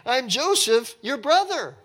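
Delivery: loud, high, emphatic reiteration; worked-up, insistent proclamation; all excited. Acted. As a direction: drive it home as if they missed it. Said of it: "I'm getting all excited here".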